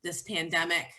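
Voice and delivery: subdued, tired heart-to-heart with husband; sad confession. Retold or imitated. Telling husband she is sad.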